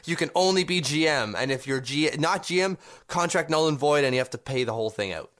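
lightly mocked scheming boss with "ha, ha, ha"; Charles Wang. Co-host imagining the owner's devious contract clause, lightly mocking villain. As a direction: voice a hint of a gloating villain. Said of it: "Charles Wang was like".

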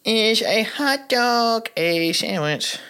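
high, slow announcer reading; dramatic announcer voice. Acted. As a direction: read it like a big game-show reveal. Dramatic reread of the question.

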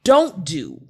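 slow, emphatic list of rules; imitating a partner's deliberate declaration; mock rule-giving. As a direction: lay out a code, point by point. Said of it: "And it was like".

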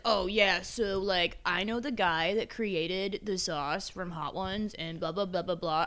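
lightly voiced droning customer; imitated boring know-it-all. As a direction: drone on slowly into meaningless blahs. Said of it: "is that exactly how he talked".

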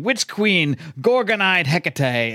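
high, drawn-out raven cry; mock raven screech; raven screaming. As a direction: shriek it like a raven. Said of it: "this raven's screaming".

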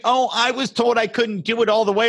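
high whiny mockery of Kamala. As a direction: whine it like a put-upon candidate. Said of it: "I was like".

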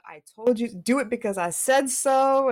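stern parent order, mildly acted; a hint of a scolding mother; mom's voice. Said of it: "I heard my mom come out my mouth".

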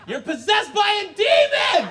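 very high, loud proclamation; screamed accusation. Acted. Parents declaring their son possessed, screamed accusation. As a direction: cry it out like an exorcist.

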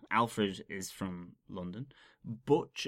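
usual speaking voice

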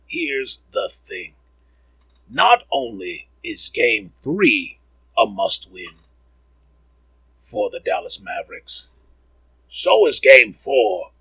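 slow, emphatic pundit impression; spaced-out analyst delivery, leaning on key words; Jalen Rose. Host mimicking an analyst on must-win games, slow and emphatic. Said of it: "that's what Jalen always says".

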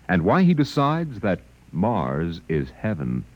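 put-on old broadcast disc. Radio announcer closing the broadcast.

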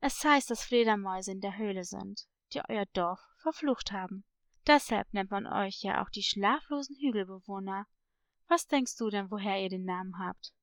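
low, softened storyteller parrot; mysterious parrot. Acted. Parrot explaining the village curse to a girl, mysterious. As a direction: tell the legend low and secretively.

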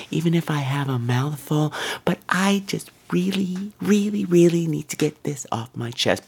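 a lightly voiced, falsely sweet woman; mock her sugary martyr tone; passive aggressive voice. Woman behind him on the subway, lightly mocked sugary passive aggression. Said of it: "the tone of the voice said".

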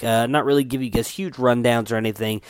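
nose whistling on breath out. Real, not acted. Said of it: "you can hear my, uh, nose whistling too much".

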